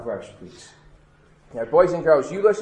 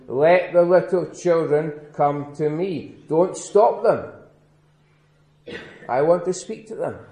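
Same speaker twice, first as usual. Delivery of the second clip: gentle Jesus. Acted.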